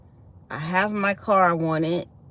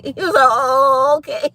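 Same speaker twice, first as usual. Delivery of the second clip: laughing; 6 semitones higher, 5 dB louder than usual. Retold or imitated. Imitating husband through laughter.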